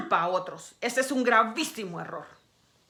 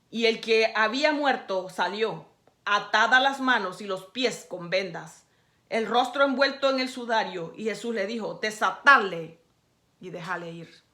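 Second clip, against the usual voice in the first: scripture reading. Acted.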